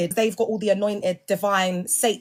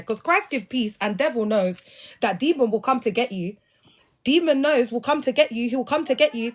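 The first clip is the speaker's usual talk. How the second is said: preacher impression; 3 semitones higher than usual. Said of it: "That's how she sounded".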